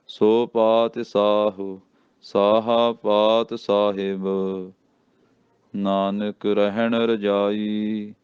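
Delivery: slow careful chant; slow recitation. Shown as a demonstration. Teacher reciting the closing verse slowly for learners. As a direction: recite deliberately, word by word. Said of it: "ਧਿਆਨ ਨਾਲ ਪਾਠ ਬੋਲਣੇ ਆ".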